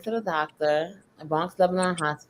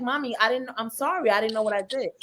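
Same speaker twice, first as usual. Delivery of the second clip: put-on higher, childlike worried pleading; pleading little girl; 3 semitones higher than usual. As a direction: sound like a scared six-year-old apologizing. Child apologizing to crying mom.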